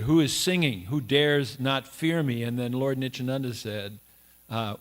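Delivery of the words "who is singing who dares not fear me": mildly indignant, emphatic demand; angry demand, lightly acted; angry challenge. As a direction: challenge them with a touch of anger. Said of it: "then Madai in anger said".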